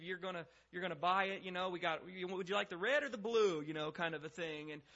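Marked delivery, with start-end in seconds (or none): 0.0-3.6 lightly voiced pushy car dealer; presumptive salesman. Car salesman offering red or blue, lightly presumptive. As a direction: assume they're buying, lifting at the final choice. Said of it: "it's just this presumptive".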